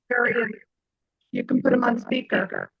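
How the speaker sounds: glitchy call audio; garbled audio. Real, not acted. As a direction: voice breaking up on the line. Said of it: "you're all garbly sounding".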